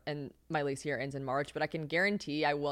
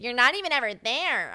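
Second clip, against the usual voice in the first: higher, louder snotty taunt; sneering mock accusation; mocking critics; 6 semitones higher, 5 dB louder than usual. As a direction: parrot the haters. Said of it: "you guys love to be like".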